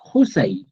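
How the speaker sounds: Josai, low and falling; teacher drilling Josai; Quechua word. Shown as a demonstration. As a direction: model Josai for the class. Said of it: "Y le aumentas una Y".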